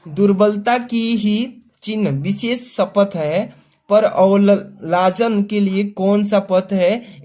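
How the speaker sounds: slow, measured reading of Hindi verse; unhurried classroom poem reading; poem recitation. Shown as a demonstration. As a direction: read the verse slowly, line by line. Teacher reads the verse aloud.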